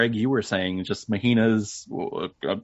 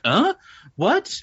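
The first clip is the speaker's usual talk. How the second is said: mock surprise; 12 semitones higher, 4 dB louder than usual. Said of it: "She's like".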